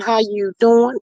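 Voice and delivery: a hint of a talk-show host's catchphrase; lightly imitated TV host greeting; Wendy Williams voice. Reading a chat hello to a friend, Wendy Williams voice. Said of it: "In my Wendy Williams voice".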